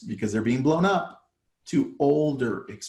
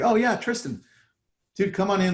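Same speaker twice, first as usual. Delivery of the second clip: much higher, eager sudden recognition; oh, it's you, come in; 8 semitones higher than usual. Retold or imitated. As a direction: homeowner suddenly recognizing the agent. Owner suddenly recognizes him.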